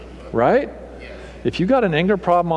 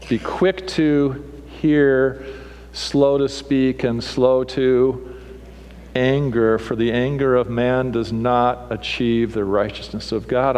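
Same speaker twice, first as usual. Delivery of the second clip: slow scripture reading; slower than usual. Real, not acted. Scripture read slowly.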